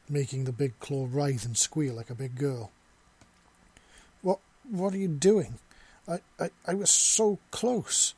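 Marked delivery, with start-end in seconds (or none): 4.2-8.1 high, loud and out of breath; breathless pant. Acted. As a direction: gasp the words out, panting. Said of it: "Ven exclaimed in a breathless pant".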